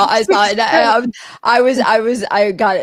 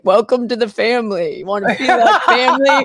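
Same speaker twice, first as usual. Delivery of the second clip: a hint of a folksy cult-leader welcome; lightly imitated Manson. Imitating the man in a Hodunk video, lightly put-on voice. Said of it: "video with Manson where he's like".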